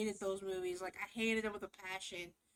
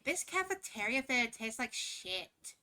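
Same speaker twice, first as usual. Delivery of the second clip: mocking preppy girl; 3 dB louder than usual. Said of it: "be like".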